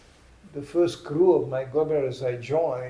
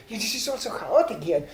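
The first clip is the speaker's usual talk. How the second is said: mock nervous complaint, higher-pitched; nervous German tourist; 6 semitones higher than usual. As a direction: fret like a tourist upset by disorder. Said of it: "They are so nervous".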